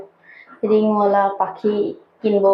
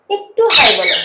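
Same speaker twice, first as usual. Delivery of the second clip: "হাই" punched louder, then falling; raised, louder plea leaning on "হাই"; insistent coaxing; 4 semitones higher, 6 dB louder than usual. Real, not acted. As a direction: press the request, stressing "হাই".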